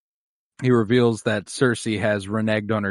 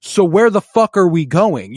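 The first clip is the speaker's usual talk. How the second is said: mock exasperated Bronn; 6 semitones higher, 6 dB louder than usual. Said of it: "imagine Bronn being like".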